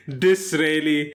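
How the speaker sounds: "Disraeli" drawn out slowly; slow demo of the name. Shown as a demonstration. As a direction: spell out "Disraeli" the way a child hears it. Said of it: "For me, in my eight-year-old mind".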